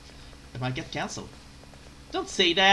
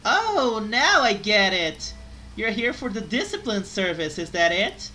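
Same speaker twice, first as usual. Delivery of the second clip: furious shouting, much higher; angry shouting maid; 7 semitones higher, 12 dB louder than usual. Acted. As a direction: yell at the customer. Maid turns to angry discipline act.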